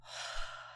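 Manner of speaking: long, voiceless breath out; releasing exhale. Shown as a demonstration. Modelling the breath for meditation listeners, audible exhale. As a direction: sigh the air out slowly. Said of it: "release on your exhale".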